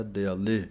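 ਦਿਆਲੇ with a short i on ਦ; ਦਿਆਲੇ, short i, not ਦੀਆਲੇ; sihari not bihari. Shown as a demonstration. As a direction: say ਦਿਆਲੇ as d̪ə-jale, the i kept short. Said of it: "ਦੱਦੇ ਸਿਹਾਰੀ ਐੜੇ ਕੰਨਾ ਲੱਲੇ ਲਾਂ ਬੋਲਣਾ".

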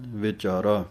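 ਵਿਚਾਰਾ with a clear short i after v; careful pronunciation. Shown as a demonstration. Teacher models ਵਿਚਾਰਾ with the sihari sounded. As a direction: say ਵਿਚਾਰਾ as vi-chaa-raa. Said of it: "ਵਾਵੇ ਦੇ ਸਿਹਾਰੀ ਬੋਲਣੀ ਹੈ".

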